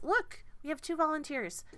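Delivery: lightly voiced excited gnome woman; pleased announcement. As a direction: proudly show off the volunteers. Gnome presents volunteers.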